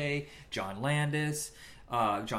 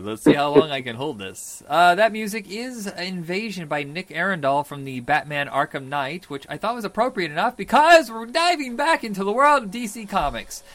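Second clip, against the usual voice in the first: loud booming hero voice; bold heroic voice; 4 semitones higher, 7 dB louder than usual. Acted. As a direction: boom it out like a superhero. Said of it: "I'm using my hero voice for the rest of this episode".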